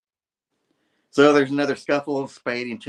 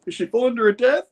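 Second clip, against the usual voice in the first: dramatic narrator; 12 semitones higher, 5 dB louder, faster than usual. A narrator's reading.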